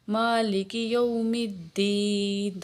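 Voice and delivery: مالک with the alif stretched one count; slow recitation; short madd on maa. Shown as a demonstration. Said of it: "ایک الف کے برابر کھینچیں گے".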